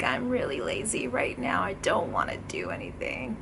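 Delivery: can't-be-bothered whisper trailing off; lazy. Shown as a demonstration. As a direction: sound too lazy to do anything. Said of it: "kind of like".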